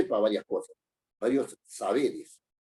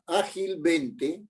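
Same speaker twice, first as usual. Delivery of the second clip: slow demo word; 4 semitones higher, much slower than usual. Shown as a demonstration. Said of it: "Si yo digo".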